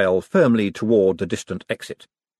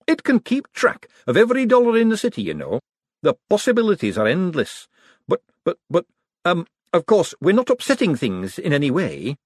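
high, eager nervous inventor; nervous economist boasting to visitors, high and eager; excitable Hubert; 10 semitones higher than usual. Acted. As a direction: gush about the machine, pitched high. Hubert rambling.

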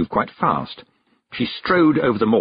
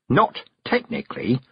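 quick; 5 semitones higher than usual. Acted. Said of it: "said Mistress Weatherwax quickly".

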